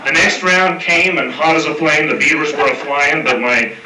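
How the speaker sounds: reciting a rhyming cowboy poem; cowboy poetry. Acted. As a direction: read it like a campfire cowboy verse. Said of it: "it's somewhat of a cowboy poem".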